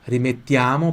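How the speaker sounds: rimettiamo with the a wide open. Shown as a demonstration. Teacher showing students the open a in rimettiamo. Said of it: "o A bem aberto".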